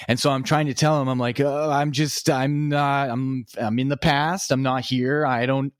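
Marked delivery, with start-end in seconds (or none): 1.4-5.7 stumbling, restarting, slightly raised pitch; retold mumbling. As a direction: imitate someone failing to get the words out. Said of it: "it just starts to mumble".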